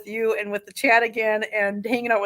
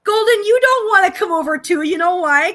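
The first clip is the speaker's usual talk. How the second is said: high pet voice; 7 semitones higher, 8 dB louder than usual. Real, not acted. Teasing the cat, high voice.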